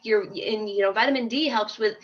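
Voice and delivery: a hint of mom lecturing a friend. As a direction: play the nagging expert. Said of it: "I'm like".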